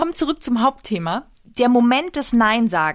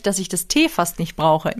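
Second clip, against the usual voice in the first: ordinary delivery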